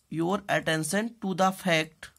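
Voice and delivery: very slow, each word spaced for writing; slow dictation. Shown as a demonstration. Teacher dictating to class, very slow and spaced. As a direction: dictate it so students can write.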